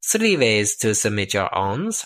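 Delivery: hammed-up German accent. Host explaining the three ways to listeners, in a German accent. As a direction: put on a comic German accent. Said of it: "Eric's gone German".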